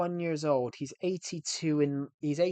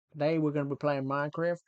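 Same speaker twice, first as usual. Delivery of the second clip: put-on American streamer accent; attempted American accent; 3 dB louder than usual. Shown as a demonstration. Streamer testing a stream intro on viewers, attempted American accent. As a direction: greet them like a would-be American streamer. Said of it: "I'm not the best at the American accent".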